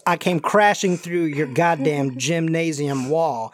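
slow, drawn-out Southern character voice; Colonel Sanders. Acted. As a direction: drift into a cartoon Southern gentleman. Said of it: "like, Colonel Sanders, Foghorn Leghorn sound here".

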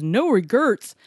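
"regrets" read back as "re-GURTS"; mispronounced regrets. Retold or imitated. Customer reading the bad tattoo, "regrets" as "regurts". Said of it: "And the customer goes".

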